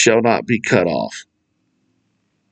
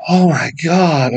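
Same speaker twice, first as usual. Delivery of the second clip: slow amazed cop; 4 semitones higher, slower than usual. Retold or imitated. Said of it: "And he goes".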